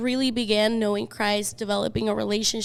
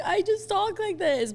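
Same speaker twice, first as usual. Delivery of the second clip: retold defensive reply; 9 semitones higher than usual. Re-enacts her answer to her sister.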